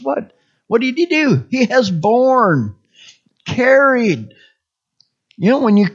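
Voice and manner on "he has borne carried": "borne" and "carried" each stretched and set apart; stress on borne, carried. Shown as a demonstration. Preacher emphasizing each word of the verse, dwelling on "borne, carried". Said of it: "Just emphasize each word".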